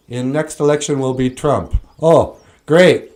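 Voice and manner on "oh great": sarcastic. Real, not acted. Sarcastic reaction to Trump.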